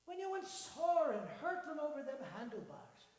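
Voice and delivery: cheery Irish-tinged man; lightly Irish old man. Acted. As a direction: marvel at the lad's luck. Voices Donald.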